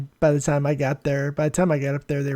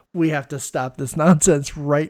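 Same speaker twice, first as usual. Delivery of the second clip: joking through laughter; 4 dB louder, slower than usual. Acted. Joke about stopping care.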